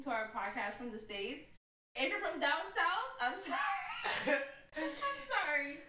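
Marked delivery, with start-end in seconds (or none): 1.9-5.8 high, drawn-out sorry through laughter; laughing, sheepish apology; giggling apology. Real, not acted. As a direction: apologise while cracking up. Mock apology to Southern listeners.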